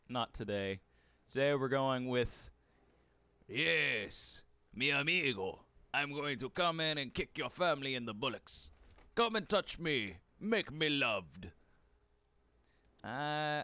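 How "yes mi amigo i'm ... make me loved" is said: light put-on Hispanic accent; playful hammed-up Hispanic accent. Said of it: "I'll stop doing a Hispanic accent".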